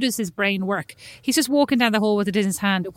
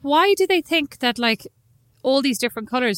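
exasperated; 4 semitones higher than usual. Retold or imitated. Exasperated quote of own complaint.

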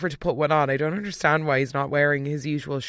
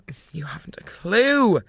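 breathy whisper, no voice at all; whispered retort. Retold or imitated. Vlogger whispering a jab at clueless Ziggy. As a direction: hiss it like a private aside.

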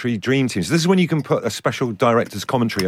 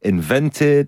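imitated Irish lilt; Irish accent; 3 semitones higher than usual. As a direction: read it as an Irish quiz host. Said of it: "when I'm doing an Irish accent".

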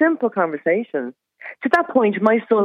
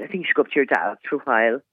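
calm, lower and quick retold suggestion; composed quote of oneself, pitched down; really calm; 5 semitones lower, much faster than usual. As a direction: recount it composedly, brisk and low. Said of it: "uh, really calmly".

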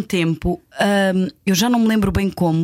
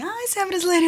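much higher mock Brazilian surprise; Márcia surprised; 13 semitones higher than usual. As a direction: imitate Márcia's high, amazed question. Imitating Márcia's surprised question.

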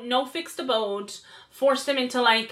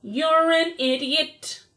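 retold insult; 4 semitones higher, much slower than usual. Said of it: "disagreement with her where I was like".

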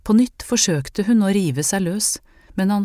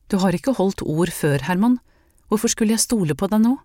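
rising angry reproach, faster at the end; accusing; 3 semitones higher than usual. Acted. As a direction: throw his broken promises back at him. She confronts Herman.

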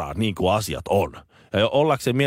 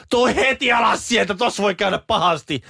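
Finnish parent yelling; 10 semitones higher than usual. Retold or imitated. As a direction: shout it up high like a scared parent at the playground. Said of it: "suomalainen huutaa".

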